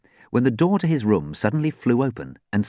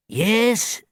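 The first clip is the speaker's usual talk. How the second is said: high wheezing query; elderly man's wheezy voice. A narrator's reading. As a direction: wheeze out a greeting. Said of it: "he wheezed".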